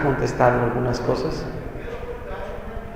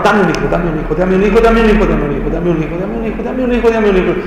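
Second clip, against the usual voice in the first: mock whiny begging; 4 semitones higher, faster than usual. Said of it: "No, no, no. No hizo eso".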